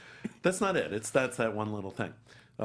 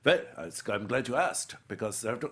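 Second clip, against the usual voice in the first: put-on German accent, louder on the opening; Anthony Hopkins; 3 dB louder than usual. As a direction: answer emphatically in a German accent. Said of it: "he has this German accent".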